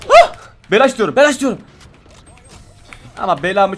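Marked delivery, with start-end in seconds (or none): 0.1-1.6 high, loud begging; excited pleading. Real, not acted. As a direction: beg for it eagerly.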